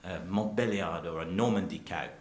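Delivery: imitating a French cheesemaker; hint of a put-on French accent; bad French accent. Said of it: "a French accent, but I'm terrible".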